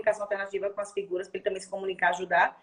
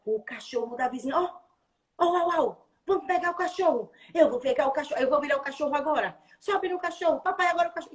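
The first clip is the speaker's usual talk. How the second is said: higher, lively play voice; playful with child; 3 semitones higher than usual. Shown as a demonstration. Therapist acting out playing with the dog, higher and lively. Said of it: "se eu não chegar pra ela".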